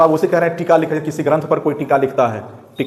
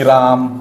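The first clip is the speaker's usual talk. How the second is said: राम said alone, then a clear break; pausing at commas; 4 semitones lower, 3 dB louder, much slower than usual. Shown as a demonstration. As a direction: stop briefly after राम, as at a comma. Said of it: "इस प्रकार से".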